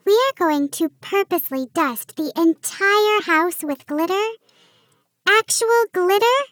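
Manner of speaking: high, disbelieving elf voice, climbing; can't believe what she's hearing; incredulous elf. Acted. Elf Pixie aghast at dusting the house with glitter, rising disbelief.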